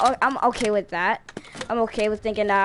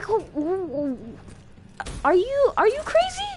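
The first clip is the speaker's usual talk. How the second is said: incredulous; 6 semitones higher than usual. Retold or imitated. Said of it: "I'm like".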